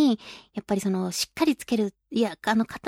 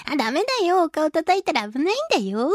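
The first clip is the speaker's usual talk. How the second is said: higher, lilting gentle telling-off; smiling scolding; 5 semitones higher than usual. Acted. Children's song lady warding off boisterous kids, smiling scolding. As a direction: scold kindly through a smile. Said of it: "顔はね、笑顔でね".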